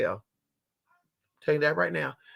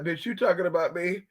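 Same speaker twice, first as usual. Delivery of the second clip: voicing the dog; 2 semitones higher, 3 dB quieter than usual. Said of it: "sitting here like".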